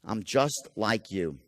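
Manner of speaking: an intimate hush of kinship; soft likability. Shown as a demonstration. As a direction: drop into a soft, confiding "I'm just like you". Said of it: "something called likability".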